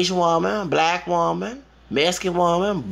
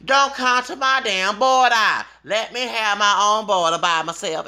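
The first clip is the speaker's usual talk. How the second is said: defiant outburst; 7 semitones higher than usual. Pretend. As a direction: shout down the disapproving family. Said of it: "If I was him".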